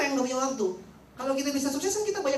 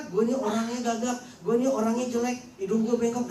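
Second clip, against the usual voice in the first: whiny self-pity; 4 dB louder than usual. Retold or imitated. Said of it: "Dia nggak pernah bicara".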